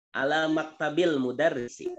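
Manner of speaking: "Ala maktabil mudarrisi" with the alif of al silent, ala running into maktabil; read straight through. Shown as a demonstration. Ustaz answers Pak Heru, linking the words smoothly. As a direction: glide "Ala maktabil" with no hamza break. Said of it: "Dibaca langsung".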